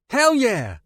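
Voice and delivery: high, loud whoop of delight; a boy grabbing a police shotgun; exclaimed. A narrator's reading. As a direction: cheer it like a thrilled teenager. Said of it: "Peter exclaimed".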